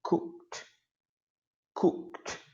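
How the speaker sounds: Cooked com o E D fraquinho, som de t no final; weak -ed ending. Shown as a demonstration. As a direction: diga "Cooked" curto, terminando em t. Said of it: "Olha a pronúncia". (pronúncia "Cooked" com final fraco)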